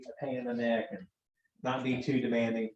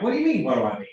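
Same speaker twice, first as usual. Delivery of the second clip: exasperated; 4 dB louder, much faster than usual. Retold or imitated. Texting argument with wife.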